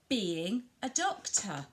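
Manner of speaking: slow, with BEING drawn out; stress on BEING. Shown as a demonstration. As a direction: commentate slowly for a child, leaning on being. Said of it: "you really emphasise those doing words".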